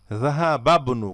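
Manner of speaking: জাহাবাবনু as one linked word; ba runs straight into b in জাহাবাবনু; silent hamza. Shown as a demonstration. Teacher gives the answer, জাহাবাবনু with no i. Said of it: "আপনি হামজাটা উচ্চারণ করবেন না".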